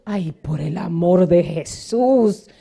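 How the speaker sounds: slow, loud, fake-crying lament; hammed-up weeping woman begging her man; mock sobbing plea. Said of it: "Si esa mujer que".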